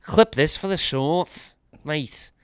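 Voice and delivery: a slow, lightly put-on Scouse accent; playful mock Liverpool accent. Teasing his co-host about liking the Scouse accent, in a light Scouse accent. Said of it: "I like the Scouse accent".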